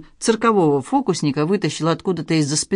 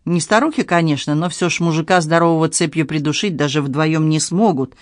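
ordinary delivery, nothing marked

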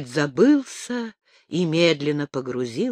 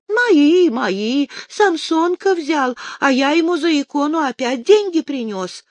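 put-on drunk crying; 9 semitones higher, 5 dB louder than usual. A narrator's reading. Drunk Ostyak pleads.

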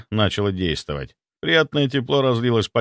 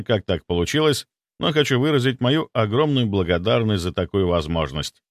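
ordinary delivery, nothing marked

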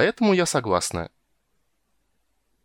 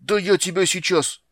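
much higher, furious outburst; furious threat; 9 semitones higher, 4 dB louder than usual. Acted. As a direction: lunge at the rat. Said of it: "рассвирепела Тигровая".

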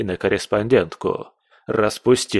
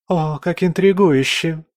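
put-on thrilled court girl, pitched way up; excited exclamation; 8 semitones higher than usual. A narrator's reading. Second girl delights in the secret romance, high excited exclaim. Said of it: "воскликнула другая девица".

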